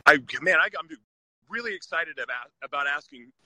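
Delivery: tripping over words, lips numb from the cold; frozen mouth. Real, not acted. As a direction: talk through cold stiff lips. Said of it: "Dude, my mouth is frozen".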